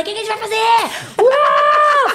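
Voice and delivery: put-on high excited child yelling; excited son shouting. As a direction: burst out like a thrilled kid at dawn. (filho animado gritando de manhã)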